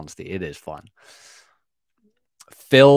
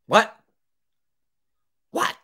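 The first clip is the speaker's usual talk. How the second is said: high, louder startled what; mock disbelief; 11 semitones higher, 4 dB louder than usual. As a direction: play the stunned insurer. Insurer reacting in disbelief.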